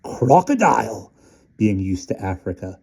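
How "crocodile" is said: alarmed. Acted. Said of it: "Stumps at once thought".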